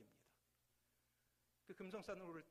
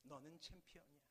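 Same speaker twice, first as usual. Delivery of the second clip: much softer echo returning; faint echo; 9 dB quieter than usual. Acted. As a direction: let it drift back from afar. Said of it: "목소리가 잠시 후에 들리죠". (멀리서 들리는 메아리)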